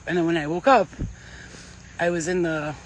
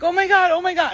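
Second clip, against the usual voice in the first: retold panic; 11 semitones higher, 6 dB louder than usual. Retelling terror at the demon.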